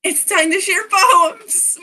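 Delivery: lightly acted sing-out to everyone; lightly voiced club announcer. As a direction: announce it slowly to the group. Voices game character interrupting the scene.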